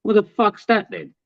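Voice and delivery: common bloke. Retold or imitated. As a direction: ask it like a rough, nosy geezer. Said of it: "being my common arse self".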